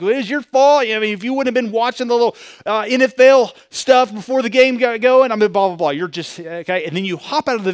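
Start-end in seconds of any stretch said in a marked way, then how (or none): 0.0-5.9 a light imitation of a nagging wife, higher and fast; mock wife retort. Wife blaming husband in the car, mock nagging. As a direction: toss the blame back at him.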